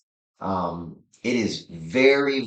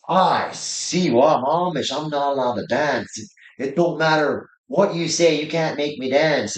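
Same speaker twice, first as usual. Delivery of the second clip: put-on higher, louder heavy Pennsylvania Dutch accent; stubborn Amish refusal, up high in heavy Pennsylvania Dutch accent; Jacob's Amish accent; 6 semitones higher, 4 dB louder than usual. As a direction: play Jacob digging in his heels in thick Pennsylvania Dutch accent. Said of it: "when I come out as Jacob".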